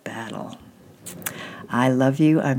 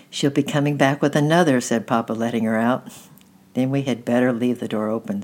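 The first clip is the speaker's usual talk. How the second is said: gentle storybook narration, voicing each character; reading a story to children. A narrator's reading. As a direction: read the chapter aloud as a bedtime story. Reads a chapter book aloud.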